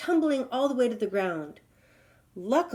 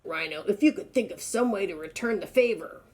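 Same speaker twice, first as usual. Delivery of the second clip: lightly voiced rhino. Rhino bargaining with the lion, lightly voiced. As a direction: slyly ask what's in it.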